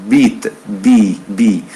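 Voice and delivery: bi with a plain b sound; teacher showing the final b; vita at word end. Shown as a demonstration. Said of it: "à la fin, ça devient".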